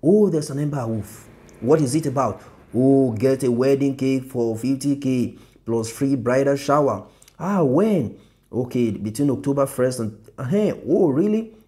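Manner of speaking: mounting delight at each line of the flyer; excited reader. Pretend. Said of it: "I want the flow to be like".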